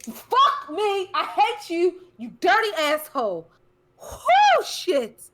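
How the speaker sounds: high, loud startled yelling; startled scream. Real, not acted. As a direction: shriek from a sudden fright. Sudden scare in the room.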